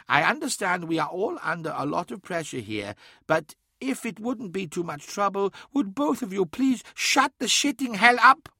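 put-on high-pitched old man, polite then building to a swearing outburst; Mahavastu's exasperated rebuke. A narrator's reading. Old man silencing two bickering companions, strained courtesy breaking into profanity. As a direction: start courteously, climb in pitch and punch the final demand. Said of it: "shocked at the old man's language".

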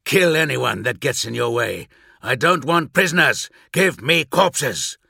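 loud, slowing savage order; bloodthirsty. Acted. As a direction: relish every word of the kill order. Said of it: "hear the bloodlust in his voice".

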